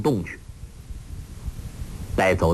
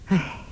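sigh; 4 semitones higher than usual. A narrator's reading. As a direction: let out a short, slightly raised sigh. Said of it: "黄蓉叹道".

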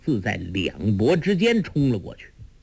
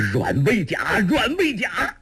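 shocked, angry, pained cry; 10 semitones higher than usual. A narrator's reading. Lingzhi finds his palm pierced, shocked and pained cry. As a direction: cry rising sharply in pitch. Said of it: "叫声中又是惊又是怒， 又有痛楚".

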